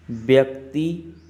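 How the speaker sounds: slow listing, each item held; dictation pace. Real, not acted. Teacher dictates definition item by item. (रुक-रुककर लिखवाने का अंदाज़)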